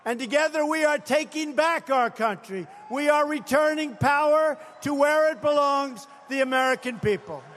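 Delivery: rally speech. Real, not acted. Climactic rally oration, shouted.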